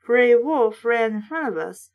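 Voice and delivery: a lightly voiced read-aloud of a horror book; reading the story steadily to listeners; story narration. A narrator's reading. Reader narrating a kids' horror book, lightly voiced.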